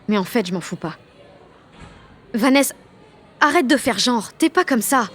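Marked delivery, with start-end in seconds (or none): 2.3-5.1 raised, exasperated reproach; reproachful. Acted. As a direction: call her out, voice rising. Quarrel with former best friend. (à son ancienne meilleure amie, reproche qui monte)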